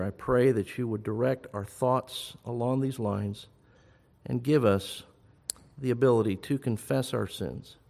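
measured, subdued praying voice; closing prayer. Real, not acted. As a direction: pray aloud calmly for the congregation.

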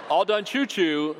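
put-on slow, drawn-out toddler phrase; slow repeat. Shown as a demonstration. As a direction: spell it out slowly for the crowd. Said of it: "for those of you who don't know, means".

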